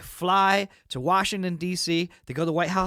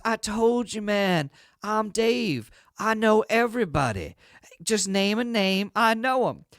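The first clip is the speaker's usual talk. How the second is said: raised pitch, stretched-out bragging; know-it-all insistence, a bit higher; insistent boast; 5 semitones higher than usual. Acted. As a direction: press the claim with total confidence. Dave boasting again to boss.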